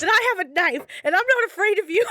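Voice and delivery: fast, high, half laughing threat; trying to sound tough, laughing through it; shaky bravado. Retold or imitated. Warning creepy man about knife.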